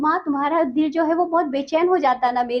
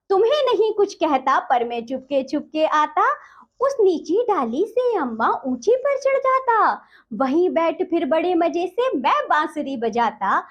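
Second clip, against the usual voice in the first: poem recitation; 3 semitones higher than usual. Acted. Teacher recites poem stanza.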